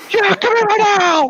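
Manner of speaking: high mock tough-guy threat; threatening guy. Retold driver threatening him, high mock menace. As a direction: ham up the bully. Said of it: "driver keeps demanding".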